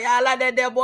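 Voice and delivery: mock Alabama accent. Guest imitating the host, in a mock Alabama accent. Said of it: "you be like".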